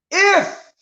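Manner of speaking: IF thrown out high and strained; stress on IF. Shown as a demonstration. Stressing IF to a listener. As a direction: punch the word IF hard. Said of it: "I put strong emphasis on the word if".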